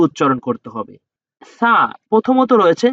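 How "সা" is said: সা with a very soft consonant. Shown as a demonstration. Teacher naming the first soft letter, সা said softly. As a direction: say the opening sound of সা gently, softly. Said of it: "অত্যন্ত নরমভাবে সা হরফটাকে".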